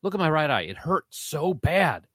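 put-on whiny kid. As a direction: whine to mom like a hurt kid. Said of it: "I'm like".

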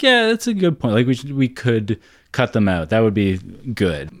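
agreeable. Retold or imitated. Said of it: "I was like".

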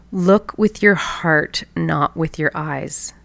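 slow, tender grandmother's advice; gentle wisdom. Retold or imitated. Grandmother teaches granddaughter, slow and tender. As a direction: say it slowly, as if passing on wisdom.

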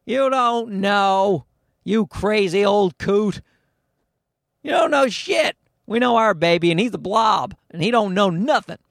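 imitated exasperated comeback; mock scolding. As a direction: dismiss a know-it-all old relative, voice lifted. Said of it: "And we're like".

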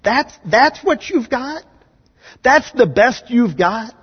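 high, slow and scornful; scoffing disbelief. Acted. God scoffing at rulers, slow high scorn. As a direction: sneer at their puny best. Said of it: "God looks at it and says".

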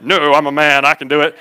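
laughing through a mock-manly boast; laughing mock pride. Husband refusing wife's help reading his letter, laughing mock pride. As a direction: play the tough man while laughing. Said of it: "And I'm like".

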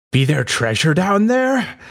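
high hammed-up pirate question. Pirate spotting the mound, high mock pirate voice. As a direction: sniff around like a greedy pirate. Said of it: "then he's like".

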